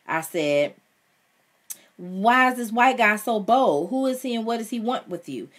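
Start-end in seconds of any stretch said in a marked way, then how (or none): 2.0-5.5 heated demand. A narrator's reading. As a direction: press her hard for answers. Son confronts mother about guest.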